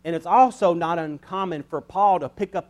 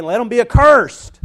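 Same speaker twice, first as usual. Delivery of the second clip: mock curse; 6 semitones higher, 10 dB louder than usual. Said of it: "started off this book by saying".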